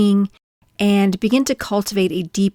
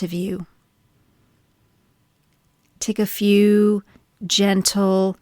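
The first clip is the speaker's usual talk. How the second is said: gentle body-scan guidance with long pauses; calm, measured meditation voice; guided meditation. Acted. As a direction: ease listeners into stillness, leaving space between phrases.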